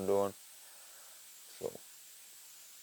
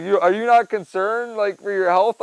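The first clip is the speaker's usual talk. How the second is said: mock serious; 9 semitones higher, 7 dB louder than usual. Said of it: "I got real serious".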